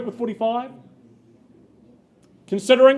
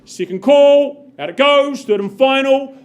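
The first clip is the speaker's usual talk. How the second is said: loud closing call; 3 semitones higher, 5 dB louder than usual. Real, not acted. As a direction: ring it out to the whole room. Auctioneer calls the final bids.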